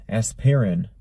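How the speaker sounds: "aspirin" in three syllables, as-peer-in; three-syllable pronunciation. Shown as a demonstration. Host puzzling over spelling, "aspirin" said as-pir-in. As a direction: sound the middle I in "aspirin" as "ih". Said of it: "isn't there another I in it".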